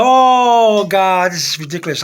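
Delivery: exasperated, drawn-out OH; mildly mad outburst, acted out; retold anger. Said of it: "I was mad".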